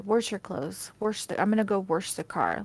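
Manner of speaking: "Wash" said with an added r, "warsh"; every "Wash" becomes "warsh"; mom's Wisconsin pronunciation. Retold or imitated. Daughter imitating mom about clothes and car, "Wash" said as "warsh". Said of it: "I do remember her saying shit like that".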